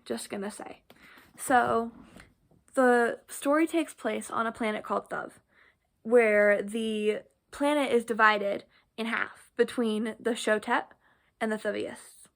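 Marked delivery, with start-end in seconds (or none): 2.7-12.3 slushy sh for s; lisping on the s sounds. Real, not acted. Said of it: "Excuse the lisp".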